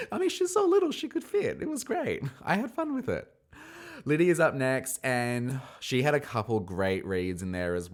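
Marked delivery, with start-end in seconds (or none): 0.1-3.3 high giggly voice; laughing. Real, not acted. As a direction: still laughing while talking. Laughing high after the joke.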